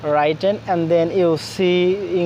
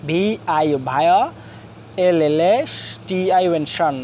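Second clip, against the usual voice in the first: ভায়োলেশন in separated chunks, letters then sound; broken into syllables; much faster than usual. Shown as a demonstration. Teacher breaking a big word down for learners, syllable by syllable. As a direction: spell ভায়োলেশন out piece by piece, sounding each chunk. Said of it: "আমরা ভেঙে ভেঙে".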